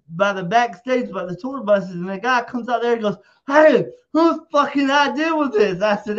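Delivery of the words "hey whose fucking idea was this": retold angry yell. Angry guy confronting him.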